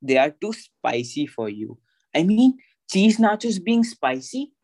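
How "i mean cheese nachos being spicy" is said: mock disbelief.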